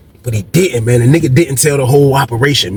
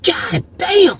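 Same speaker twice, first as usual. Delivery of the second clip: mock amazed; 3 dB quieter than usual. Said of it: "I'm like".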